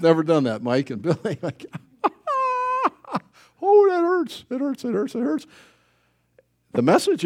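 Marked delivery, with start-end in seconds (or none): 2.0-2.9 very high comic yelp of pain; high-pitched pretend howl; mock pain cry. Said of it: "hit your finger with a hammer". 3.6-5.5 high-pitched mock agony; hammed-up hurting, pitched way up; acted pain. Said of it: "hit your finger with a hammer".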